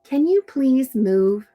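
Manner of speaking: polite request. Shown as a demonstration. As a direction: ask kindly, as the nice friend. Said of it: "what is a nice way to say move".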